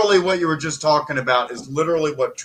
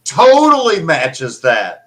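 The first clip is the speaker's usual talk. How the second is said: sarcastic; 4 dB louder than usual. Real, not acted. Sarcastic about song fitting.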